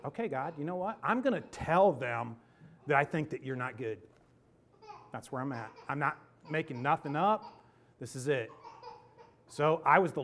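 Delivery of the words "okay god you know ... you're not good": dug in, defiant. Retold or imitated. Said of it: "in the way that I am dug in".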